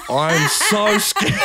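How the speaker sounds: laughing through the words, slow and high; can't stop laughing while saying it. Real, not acted. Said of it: "laughing while retelling fear".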